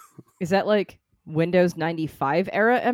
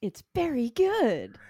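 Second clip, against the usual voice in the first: slow reading voice; 6 semitones higher, slower than usual. Retold or imitated. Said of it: "on the bottom of this one says".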